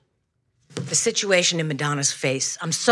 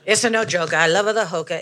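Italian lady. Acted. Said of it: "I guess the Italian lady".

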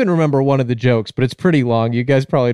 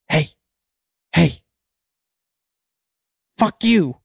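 high-pitched talking parrot; short high squawky parrot calls; 6 semitones higher, slower than usual. Acted. Parrot cursing at a pet store customer, high parrot voice. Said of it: "the parrot says".

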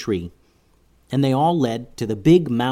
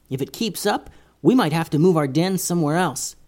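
high worried little mouse; small squeaky voice with worry; tiny squeaky critter; 6 semitones higher than usual. Acted. Mouse Stella explains.

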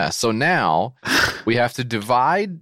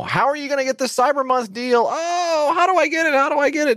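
much higher, hammed-up fretting; mock confused whine; 13 semitones higher than usual. Host acting a confused customer for the ad, high and fretful. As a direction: ask it like a baffled, anxious shopper. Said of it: "host acts out a confused buyer".

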